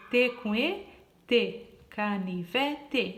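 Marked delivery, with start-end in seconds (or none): 1.9-3.2 "canivete" slowed into ca-ni-ve-te; "canivete" built slowly from its four syllables. Shown as a demonstration. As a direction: sound out "canivete" one syllable at a time. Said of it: "assim a gente vai formando as palavras".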